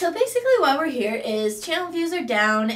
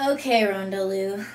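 ordinary delivery

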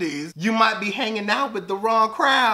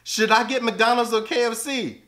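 normal talking voice

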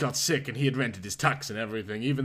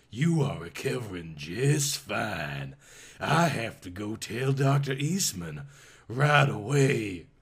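Southern nurse; 4 semitones lower than usual. Acted. Nurse voice continues.

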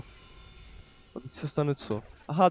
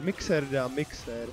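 normal talking voice

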